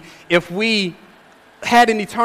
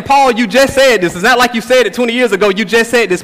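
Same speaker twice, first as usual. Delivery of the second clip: louder, higher, hurried complaint; mock protest; 4 semitones higher, 5 dB louder than usual. Galatian church complaining to Paul that he repeats himself, mock protest. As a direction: object briskly, as if tired of the repetition. Imagined church objecting to Paul's repetition.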